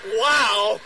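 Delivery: loud retold holler; big, drawn-out shout; yelled. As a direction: re-enact the lone yell from the crowd. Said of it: "who just yelled".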